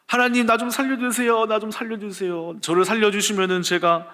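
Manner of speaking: 높은 목소리로 애타게 비는 기도; 살려 달라고 매달리듯 높게; 간절한 기도. Retold or imitated. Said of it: "하고 간절히". (간절히 매달리는 기도)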